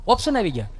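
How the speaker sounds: usual speaking voice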